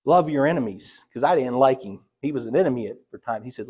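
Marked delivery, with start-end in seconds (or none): 0.0-1.0 voice of the Lord. Retold or imitated. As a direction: call him out firmly, then ease off. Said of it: "the Lord had to teach me".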